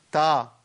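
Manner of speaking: تا with an unemphatic T, not heavy; the incorrect thin تا; wrong light T. Shown as a demonstration. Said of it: "ما ينفعش أقول".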